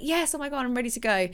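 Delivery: fired-up excitement. Retold or imitated. Herself at month start, high and excited. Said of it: "I'd be like".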